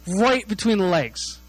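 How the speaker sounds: drawn-out, deliberate RIGHT between the legs; slow emphatic reveal. Real, not acted. Telling where the brother's kick landed, slow and emphatic.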